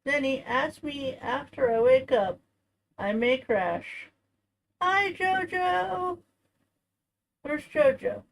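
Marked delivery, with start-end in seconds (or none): 4.8-8.2 high, slow greeting; doting pet greeting. Real, not acted. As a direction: sing out to the pet.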